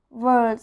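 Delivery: world with a full rolled er before the L; strong R in world. Shown as a demonstration. Teacher demonstrating the R sound. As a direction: lean on the R in world. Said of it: "a very strong R sound".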